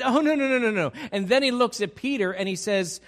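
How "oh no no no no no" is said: loud, high run of protests; protesting disciples. Retold or imitated. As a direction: deny it loudly as the startled disciples. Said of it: "And they said".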